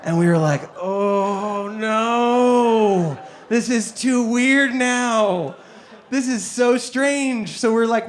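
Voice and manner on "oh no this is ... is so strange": slow, laughing horror; mock-horrified giggle; laughing dismay. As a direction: recoil while laughing. Seeing picture of her daughter.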